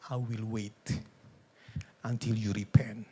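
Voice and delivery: low, calm promise; patient reassurance. Acted. God answering a sinner with love, low and patient. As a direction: speak low, patiently waiting.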